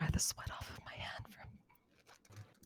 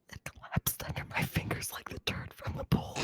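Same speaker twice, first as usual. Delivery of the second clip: shrieking with disgusted laughter; laughing; 8 dB louder than usual. Real, not acted. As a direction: burst out laughing loudly.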